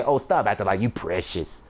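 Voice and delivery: understated playful teasing; joking tease. Retold or imitated. Joking with his little sister at dinner, mild teasing tone. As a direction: tease lightly, as an obvious joke. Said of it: "Obviously, listen to my tone. I was joking".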